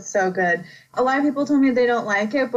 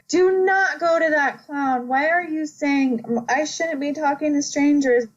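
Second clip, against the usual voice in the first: put-on pleading with the kid; 6 semitones higher than usual. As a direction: beg the kid not to go near the clown. Pleading with a horror character.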